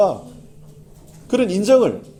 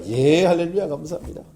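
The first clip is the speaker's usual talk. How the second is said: cheerful reply. Retold or imitated. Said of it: "누가 뭐라 해요?".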